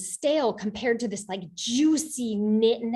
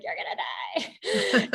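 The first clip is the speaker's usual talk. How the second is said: slow, drawn-out devilish warning; devil on the shoulder; 8 semitones higher, much slower than usual. Acted. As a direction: draw out the doom like a teasing devil. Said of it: "And then the devil's like".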